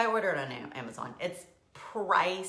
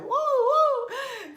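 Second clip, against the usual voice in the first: high, loud "woo, woo"; wild, high-pitched whoops; giddy whooping; 7 dB louder than usual. Acted. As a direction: whoop as if all over the place. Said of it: "I'm like".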